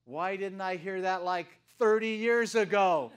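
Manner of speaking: loud, slow exclaim of disbelief; astonished outburst. Retold or imitated. Retelling his reaction to the graduate, astonished and loud. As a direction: marvel that nobody told him sooner. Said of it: "And I just went".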